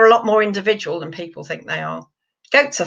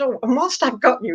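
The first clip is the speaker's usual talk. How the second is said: lightly put-on posh voice; Spike; 3 semitones higher than usual. Bearded dragon raising another grievance, lightly posh. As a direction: politely raise a matter, a hint of posh. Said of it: "voice as being really posh".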